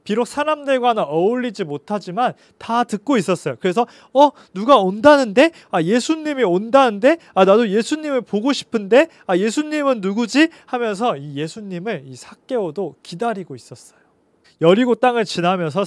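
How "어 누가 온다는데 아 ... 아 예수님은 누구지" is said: raised, louder eager questions; a little man dying to see who is coming; eager curiosity. Acted. Zacchaeus hearing the crowd, asking eagerly who is coming.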